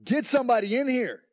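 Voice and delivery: a frightened king shouting orders; king crying out. Retold or imitated. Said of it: "So the king cries out".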